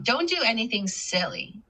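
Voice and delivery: statement tune, falling on SILLY; falling intonation. Shown as a demonstration. Teacher repeating a statement to show the drop, falling intonation. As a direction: bring the pitch down through SILLY. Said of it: "It goes down".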